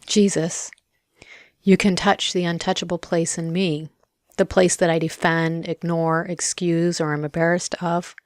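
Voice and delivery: unhurried prayer with long pauses; guided prayer. Real, not acted. Speaking to Jesus about his touch, reflective prayer. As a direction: pray it gently, leaving space between phrases.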